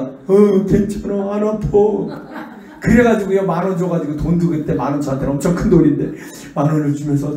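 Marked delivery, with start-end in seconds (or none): 0.0-2.5 put-on higher, slow little child; child's voice. Child reassuring his mother, high and slow. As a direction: say it like a small kid, drawn out. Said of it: "얘가".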